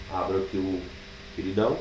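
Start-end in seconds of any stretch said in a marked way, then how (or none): none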